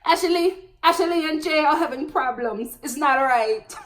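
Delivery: playful, slightly exaggerated Jamaican accent imitation. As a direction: mimic the freezing sister with a Jamaican accent. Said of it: "I'ma stop with these accents".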